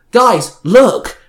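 high, loud call to attention. A narrator's reading. Xander alerting his friends to the Rangers, calling out. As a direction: call out to the others. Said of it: "Xander called out".

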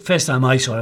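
ordinary talk

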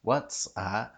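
"what's" with a stop before the S; careful Cockney "what's that"; better stop. Shown as a demonstration. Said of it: "that's better".

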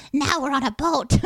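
put-on lightly pinched kid's voice; a hint of a bratty child. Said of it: "Why am I doing this kid's voice?".

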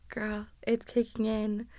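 tired whisper. Real, not acted. Hangover confession.

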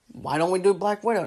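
lightly acted tentative pitch; mock suggesting. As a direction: float the idea as an imagined executive. Imagined executive suggests it again.

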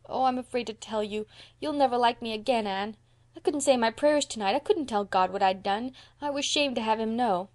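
high-voiced, ashamed child; miserable little boy Davy. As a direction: confess like an upset small boy.

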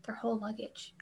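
hushed whisper; whispered aside. Real, not acted. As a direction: drop to a whisper for the punchline. Whispered punchline of funny story.

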